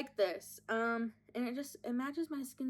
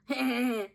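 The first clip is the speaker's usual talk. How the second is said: exaggerated mocking "heh heh heh"; mocking laugh imitation; 6 dB louder than usual. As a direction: mimic someone making fun of your laugh. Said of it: "He was just making fun of me".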